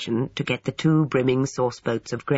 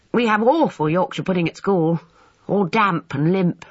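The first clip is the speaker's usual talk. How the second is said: grumbling schoolboy; 5 semitones higher, 4 dB louder than usual. A narrator's reading. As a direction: complain in a high schoolboy voice. Schoolboy complaining about school food.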